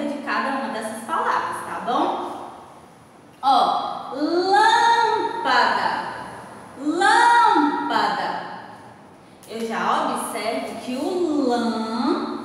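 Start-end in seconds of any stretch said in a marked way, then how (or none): 4.1-6.1 "lâmpada" with LÂM stretched long, high and strong; stress on LÂM. Shown as a demonstration. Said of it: "ele tem um som mais forte". 6.8-8.5 very slow "lâmpada", LÂM drawn out high and loud; stress on LÂM. Shown as a demonstration. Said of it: "ele tem um som mais forte".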